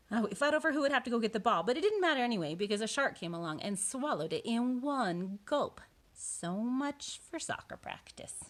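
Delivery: lively picture-book narration; reading to children. A narrator's reading. Boy tells of joining pirates, storybook narration. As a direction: read it as the boy's own tale.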